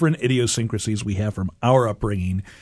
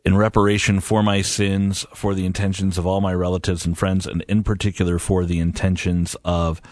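prayer; 3 semitones lower than usual. Acted. Opening prayer.

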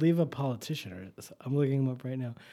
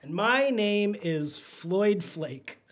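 slow grand intro; 5 semitones higher, much slower than usual. Pretend. Fake host name intro.

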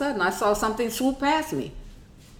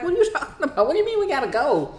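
tag; 10 semitones higher, faster than usual. Retold or imitated. Mom's startled reply, acted out.

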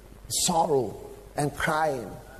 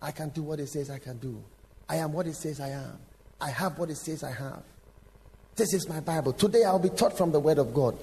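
congregation declaration. Retold or imitated. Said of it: "lift up his Bible and say".

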